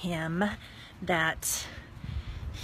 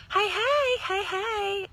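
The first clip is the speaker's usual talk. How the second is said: high, louder friendly hey; calling out; 11 semitones higher, 4 dB louder, much slower than usual. Real, not acted. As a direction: hail someone across the street. Calls out to passerby.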